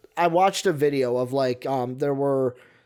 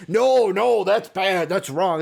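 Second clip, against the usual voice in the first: higher, louder mock protest; mock indignant crowd; 4 semitones higher, 4 dB louder, slower than usual. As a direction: parody the crowd's outraged denial. Mocking the crowd's denial.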